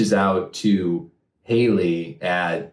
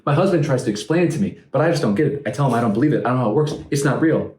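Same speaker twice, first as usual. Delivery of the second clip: high mocking lady voice; 5 semitones higher, faster than usual.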